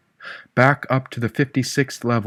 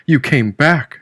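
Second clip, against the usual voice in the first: excited; 4 semitones higher, 4 dB louder, slower than usual. Acted. Jane tearful reunion.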